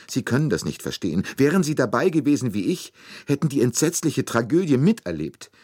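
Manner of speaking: high, loud, tearful lament; a nursemaid crying out her grief; weeping nurse. A narrator's reading. Nursemaid tells Poirot about the child, tearful and high. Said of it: "noch immer weinend".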